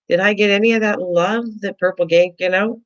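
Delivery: high, playful mock hurt complaint; mock jealous. Host teasing her chat for ignoring her, mock hurt. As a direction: tease them like a wounded host.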